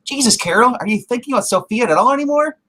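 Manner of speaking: high-pitched exasperated imitation; hammed-up incredulous questioning; mock scolding. Acts out Lori scolding Carol.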